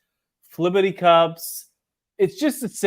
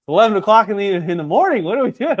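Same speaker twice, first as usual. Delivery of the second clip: retold incredulity; 3 semitones higher, 5 dB louder, faster than usual. Customer retelling a morning cocktail offer, incredulous. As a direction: play up the disbelief in retelling it.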